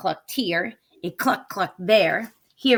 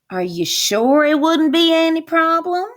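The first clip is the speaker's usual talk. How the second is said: wolf voice; 8 semitones higher, 6 dB louder than usual. Acted. Wolf checks, witch echoes.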